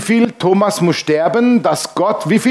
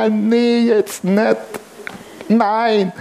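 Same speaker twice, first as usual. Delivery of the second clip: higher pitched, exasperated no; exasperated refusal; 5 semitones higher, much slower than usual. Retold or imitated. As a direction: push back, voice going up. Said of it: "und du denkst". (genervt und höher: nee, jetzt nicht)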